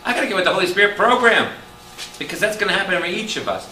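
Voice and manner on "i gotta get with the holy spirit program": high-pitched, mock-desperate resolve; acted urgent plea. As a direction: play a sinner begging for time. Voices sinner pleading for more time.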